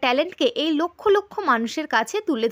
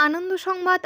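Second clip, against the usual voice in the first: higher, ringing first call of the good news; excited headline call; 4 semitones higher than usual. Acted. Announcer calling out good news to viewers, higher and bright. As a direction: announce it up high to grab attention.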